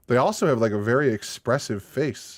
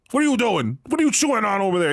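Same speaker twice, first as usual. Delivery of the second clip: talking to dog; 7 semitones higher, 3 dB louder, faster than usual. Pretend. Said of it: "if I came out and be".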